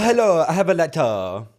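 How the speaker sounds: playful put-on Italian accent. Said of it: "That's better than what I did".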